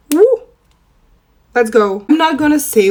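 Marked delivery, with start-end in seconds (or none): 0.1-0.4 a high whoop of delight; excited cheer. Real, not acted. Vlogger celebrating her lashes to viewers, whooping. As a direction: whoop like you just nailed it.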